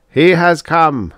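high, slow, loud proclamation; robot's cry. A narrator's reading. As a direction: cry it out like a worshipper. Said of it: "cried one".

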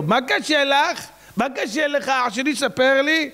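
high-pitched cooing questions; mock sympathy. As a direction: tease with exaggerated concern. Mock sympathy toward the complainer.

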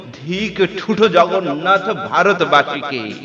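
ringing theatrical outrage; furious curse. Acted. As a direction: hurl a vow of vengeance at your tormentor. Wronged Draupadi curses her tormentors.

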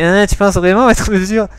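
lightly voiced prosecutor. Shown as a demonstration. Player shows his prosecutor opening, lightly put on. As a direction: lead in with a challenging "hein". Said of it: "la voix du procureur".

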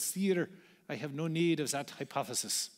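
put-on a light, self-admittedly poor French accent. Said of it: "That's my French accent".

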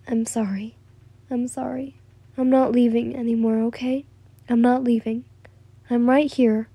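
soft, gentle apology; comforting. Acted. She hugs the sobbing boy, softly comforting. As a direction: soothe softly, mostly hushed. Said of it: "as you comforted him".

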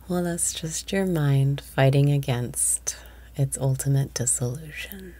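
half-whispered meditation teaching; guided meditation. Acted. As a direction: lead the breath, then confide the lesson in a whisper.

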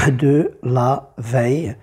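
"de la veille" in slow separate syllables; syllable-by-syllable count. Shown as a demonstration. Teacher finishing the syllable count, "de la veille" slowly spaced. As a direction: space out each word of "de la veille". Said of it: "si je compte, je vais avoir dix syllabes".

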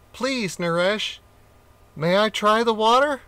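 high, small pleading monkey voice; tiny monkey asks the king, high and timid; little voice. A narrator's reading. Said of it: "a little voice popped up".

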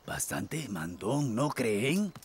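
low, slow, soft muttered aside; low grumble. Acted. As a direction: grumble it under your breath. Grumbles about bossy captain.

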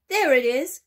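excited shout. Acted. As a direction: shout and point it out. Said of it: "someone else shouted".

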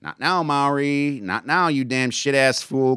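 muttering. Acted. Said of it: "Corporal Marks muttered".

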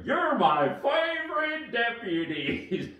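slow, hearty cowboy line; a cheerful sheriff calling out; Woody cowboy voice. Acted. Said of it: "then I'll go".

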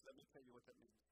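a hint of the guide's voice; Israeli guide impression. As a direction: gently mimic the guide from Israel. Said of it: "that's exactly how he sounds".

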